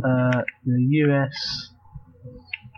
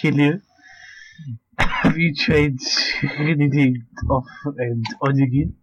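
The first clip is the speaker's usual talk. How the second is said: tech support voice. Retold or imitated. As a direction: recite it like a helpdesk worker. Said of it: "Let's do that voice".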